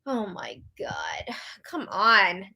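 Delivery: slow, whispered groan of despair; exasperated. Real, not acted. Host reacting to unfair gossip, exasperated. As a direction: sigh it out low and soft.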